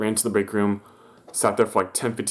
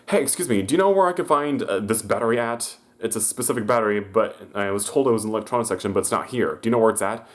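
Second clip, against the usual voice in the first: raised voice, a lightly voiced pushy customer. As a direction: mimic the customer rushing up with a question. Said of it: "approaching me, and says".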